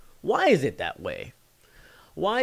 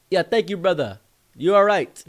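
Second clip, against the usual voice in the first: high, loud imitated reply; African friend calling; 7 semitones higher, 7 dB louder than usual. African friend thanking the group, calling out. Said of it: "And he was like".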